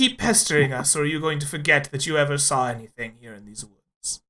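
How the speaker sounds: quick, threatening bandit leader; a lightly voiced bandit, hurried and threatening; menacing bandit. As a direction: press him fast with veiled menace.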